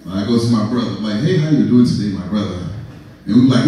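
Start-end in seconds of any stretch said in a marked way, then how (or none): 1.2-2.6 put-on lightly African-accented brotherly greeting. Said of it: "when I use this accent".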